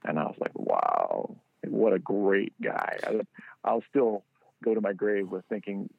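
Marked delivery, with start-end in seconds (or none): 0.6-3.0 slow, whispered admiration; awed. Retold or imitated. Man moved by a star's kindness, slow and whispered. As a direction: breathe it out in awe.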